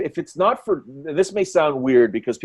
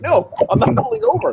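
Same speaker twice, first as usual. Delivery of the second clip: high-pitched mock defiance; defiant refusal; 3 dB louder than usual. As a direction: refuse in a much higher, indignant voice. Acting out stubborn driver refusing.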